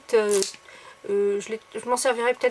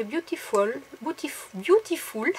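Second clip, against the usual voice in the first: English word in a real French accent; 2 semitones higher, slower than usual. Real, not acted. Vlogger reading an English sticker aloud to viewers, French accent. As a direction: stumble over "beautiful" with a French accent. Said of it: "mon accent anglais ne s'arrange pas".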